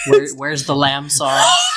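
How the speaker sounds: mock Gordon Ramsay yell. Doing Gordon Ramsay demanding the lamb sauce, mock yell. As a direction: yell like a mock celebrity chef. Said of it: "Gordon Ramsay".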